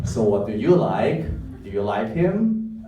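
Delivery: put-on unsure stab at a Thai accent, rising endings; attempted Thai accent. Actor improvising at an audition, tentative Thai accent. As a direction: try a Thai accent, lifting each question. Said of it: "try with a Thai accent".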